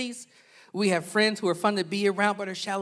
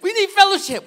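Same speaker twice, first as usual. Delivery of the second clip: mock churchy voice; 12 semitones higher, 10 dB louder than usual. Mocking churchgoers' phrase.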